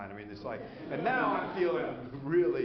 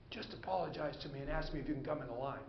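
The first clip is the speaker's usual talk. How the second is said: softer, fast, quick hushed instruction; under his breath; 6 dB quieter, faster than usual. Retold or imitated. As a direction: slip him the advice so the group can't hear. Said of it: "the guy says under his breath".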